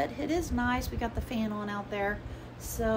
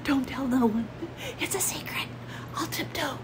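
playful hushed secret voice, higher; mock whisper; 5 semitones higher than usual. Laughing at herself for whispering outside. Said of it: "And here I'm whispering".

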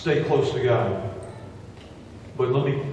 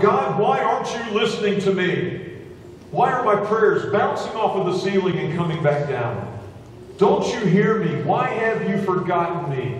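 mock shouting at God; 7 semitones higher than usual. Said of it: "we will scream and we will shout".

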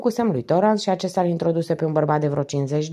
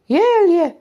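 hoarse, higher and louder accusation; hoarse cry; 12 semitones higher, 6 dB louder than usual. A narrator's reading. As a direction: point at him and rasp it out. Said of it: "rosti ea cu un glas răgușit". (strigă răgușit „El e!”)

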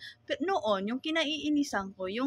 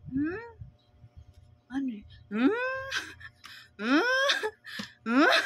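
imitating puzzled asking; 7 semitones higher, slower than usual. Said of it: "Tapos sabi niya".

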